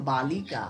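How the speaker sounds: বালিকা slowly split into বা, লি, কা; syllable by syllable. Shown as a demonstration. Teacher showing pupils open syllables, বালিকা said slowly syllable by syllable. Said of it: "যতদূর ইচ্ছে উচ্চারণ করতে পারবি".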